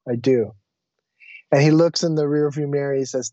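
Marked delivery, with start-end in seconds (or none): 0.1-0.5 gentle, lowered sincere admission; heartfelt. Retold or imitated. Humbled passenger answering the driver's question, sincere. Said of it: "connected back into my heart".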